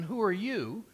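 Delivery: accusing question landing on "you"; stress on YOU. Retold or imitated. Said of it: "see, the emphasis, um, there is on the word you".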